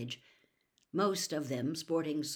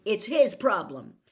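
stubborn; 4 semitones higher, 10 dB louder than usual. A narrator's reading. Harry continues stubbornly.

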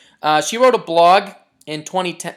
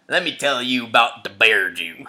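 mock ominous; 6 semitones lower than usual. Teasing ominous storyteller voice.

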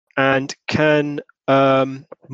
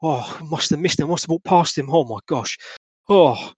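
a touch higher, flustered cockney man; startled cockney witness; 5 semitones higher than usual. Acted. Shaken witness telling the constable what he saw. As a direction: babble nervously like a shaken passer-by.

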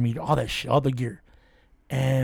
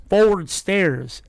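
voice box; 4 semitones higher, much slower than usual. Retold or imitated. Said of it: "then it goes".

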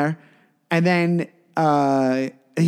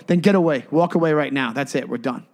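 stern; 3 semitones lower than usual. Retold or imitated. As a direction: send him off, calm but final. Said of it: "I was just being stern".

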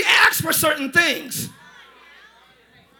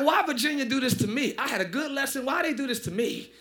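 much softer, low whining why me; mock lament to self; 4 semitones lower, 10 dB quieter than usual. Preacher mocking his own reluctance to preach, softer and lower. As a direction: grumble it under your breath in mock self-pity. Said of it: "I'm like".

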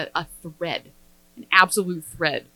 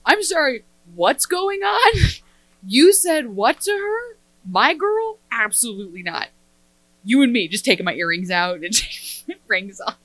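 unhinged best friend; 3 semitones higher, 4 dB louder than usual. Retold or imitated. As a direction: square up for your girl with mock outrage. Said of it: "I felt like an unhinged best friend".

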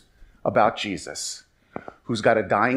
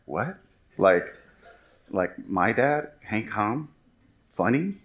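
incredulous son; 4 semitones lower, 5 dB quieter, slower than usual. Retold or imitated. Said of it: "you should have seen the face he gave".

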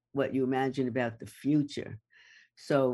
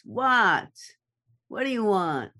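sharp, irritated snap, higher and louder; nasty tone; 6 semitones higher, 4 dB louder than usual. Shown as a demonstration. Demoing a nasty tone to a partner, irritated snap. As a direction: bite it out like you're fed up. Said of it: "nasty tone of voice".

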